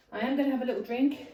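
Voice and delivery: breathless between exercises; puffing, short of breath. Real, not acted. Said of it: "I'm getting a little bit out of breath".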